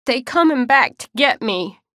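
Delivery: high, loud tearful whine; whining tearful. Acted. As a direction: whine it through tears like a child. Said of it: "whining voice full of tears".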